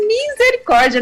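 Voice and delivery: high exclamation of dismay; mock-horrified at a muddy dog; mock horror. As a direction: throw up your hands at the mess. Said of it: "Eu falei".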